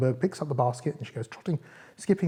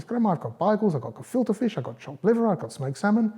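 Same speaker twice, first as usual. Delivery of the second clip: put-on high little-girl voice; high, sing-out girl listing her food; Little Red Rosenberg; 7 semitones higher than usual. A narrator's reading. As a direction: pitch it up high as the young girl.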